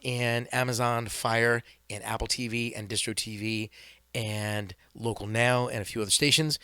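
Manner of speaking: sports announcer promo read; ESPN announcer. Acted. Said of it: "That was a good announcer voice".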